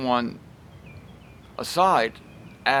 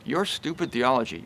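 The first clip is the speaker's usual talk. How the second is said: "your stupid theology" softer and calm; meek; 3 semitones lower, 4 dB quieter than usual. Shown as a demonstration. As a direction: say it gently, no sneer. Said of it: "Note the difference between that and".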